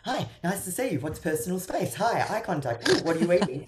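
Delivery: high, bouncy puppy voice, bursting in; excited dog energy. Retold or imitated. Coach acting out a dog-like partner, high and eager. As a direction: play an overeager dog barging into space. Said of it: "it's like, dog energy".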